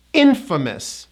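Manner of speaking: "infamous" as IN-fuh-mus; model pronunciation. Shown as a demonstration. Teacher gives the opposite word, "infamous" as IN-fuh-mus. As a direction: stress IN in "infamous", reduce the middle. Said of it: "is pronounced as".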